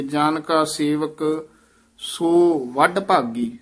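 ਜਨ ਕਾ ਸੇਵਕ said slowly with each word apart; words kept separate. Shown as a demonstration. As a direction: separate ਜਨ, ਕਾ and ਸੇਵਕ clearly, unhurried. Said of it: "ਇਹ ਨਾ ਪਦ ਜਿਹੜੇ ਨਖੇਰ ਕੇ ਪੜ੍ਹੀ ਦੇ".

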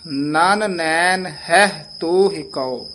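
slow ਨਨ ਨੈਣ ਹੈ ਤੋਹਿ ਕਉ, closing on a falling ਤੋਹਿ ਕਉ; slow, and settle into the pause at the end; pause here. Shown as a demonstration. Teacher showing where the student should pause, slow. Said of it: "ਇੱਥੇ ਵਿਸਰਾਮ ਲਾਉਣਾ ਹੈ".

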